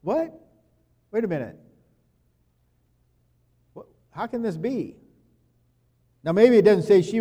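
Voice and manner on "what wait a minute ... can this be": high startled "What?", then a puzzled question; a jolt of surprise breaking into disbelief. Retold or imitated. Mary, hearing the angel's message, asks in startled surprise. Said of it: "She's excited".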